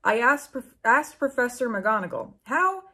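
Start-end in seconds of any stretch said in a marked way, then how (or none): 2.4-2.8 hammed-up indignant how dare you, loud on dare; mock demand. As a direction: sneer it like an outraged professor. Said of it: "demanded Professor Snape".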